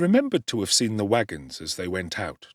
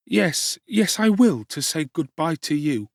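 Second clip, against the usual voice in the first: put-on young Oliver; 8 semitones higher, 5 dB louder than usual. A narrator's reading. Oliver asking Dick at dawn, high anxious boy. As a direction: ask anxiously as a runaway boy.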